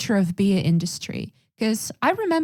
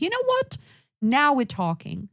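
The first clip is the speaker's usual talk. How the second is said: mock delighted; 4 semitones higher than usual. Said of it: "I'm like".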